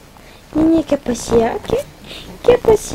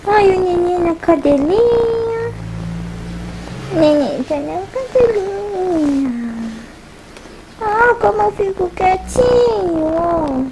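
lightly voiced baby, stretched singsong words; cooing pretend baby talk; baby's voice; 5 semitones higher, slower than usual. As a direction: speak as the baby, drawing words out. Mother voices her baby.

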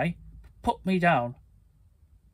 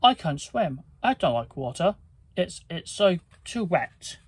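begging; 2 semitones higher than usual. Acted. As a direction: plead like a thief who can't swim. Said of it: "the thief begged".

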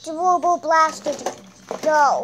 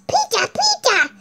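high-pitched cartoon attack call; Pikachu; 9 semitones higher, 5 dB louder than usual. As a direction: squeak the name, building to a long loud cry. Plays Pikachu making an attack cry.

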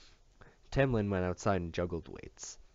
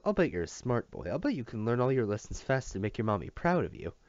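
lightly raised, sugary teacher praise; hearty teacher voice; 4 semitones higher than usual. Acted. Teacher praising the boy in a lightly sugary voice. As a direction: coo it at the child a little too sweetly. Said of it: "in a hearty voice".

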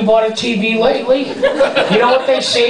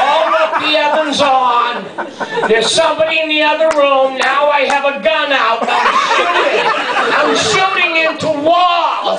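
panicked; 6 semitones higher than usual. Retold or imitated. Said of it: "I go".

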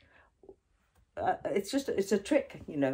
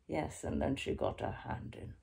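distant voice; 3 semitones lower, 8 dB quieter than usual. Shown as a demonstration. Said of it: "the quiet voice".

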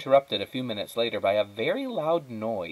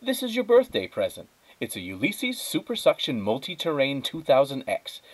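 much higher, eager presenting voice; excited wife; 5 semitones higher than usual. Acted. Wife eagerly presenting the vacuum to Donald, high and excited. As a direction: show off the gift with glee.

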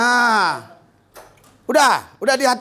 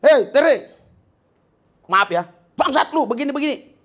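mock insulting shout; 5 semitones higher than usual. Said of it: "Kalau kau udah banyak dimaki orang".

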